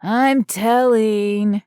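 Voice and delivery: put-on slow, whiny little-kid tattle. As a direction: whine it like a child telling on someone. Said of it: "used his whiny kid voice".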